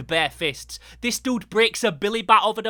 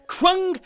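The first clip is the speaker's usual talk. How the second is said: punchy higher-pitched crash word; comic-book sound effect; 10 semitones higher, 4 dB louder than usual. Retold or imitated.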